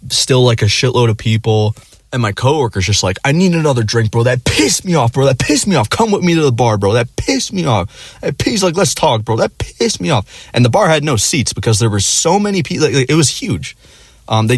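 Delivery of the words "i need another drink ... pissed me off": put-on higher, slurred drunk grumbling; drunken rant. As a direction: play the sloppy drunk buddy venting. Drunk coworker ranting at bar.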